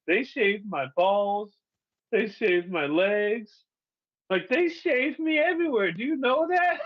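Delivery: can't believe what they did to him; incredulous. Retold or imitated. Shocked at being shaved.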